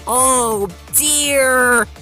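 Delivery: high, loud wail; alarmed shout. A narrator's reading. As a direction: cry out in dismay. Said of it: "he shouted".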